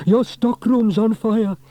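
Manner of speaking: high, loud, slow warning; alarmed shout. A narrator's reading. Man telling shopkeeper of fire, slow loud shout. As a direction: call it out in alarm. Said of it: "he shouted".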